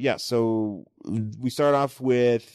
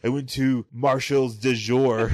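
laughing mock French; 3 semitones higher, 4 dB louder than usual. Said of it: "joking fancy French shop".

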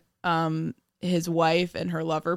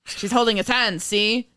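lightly voiced 1930s gangster newsman; tough-guy newsreel patter with see; old-timey reporter voice; 3 semitones higher, 3 dB louder, slower than usual. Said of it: "Your old-timey nineteen thirties reporter voice?".

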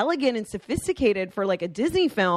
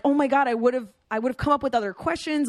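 mildly panicked retelling, higher pitch; retold freak-out; 4 semitones higher than usual. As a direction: replay a small panic over being unprepared. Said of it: "I start freaking out".

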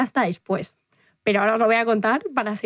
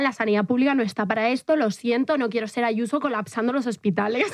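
retold crying. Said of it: "Y yo llorándole".

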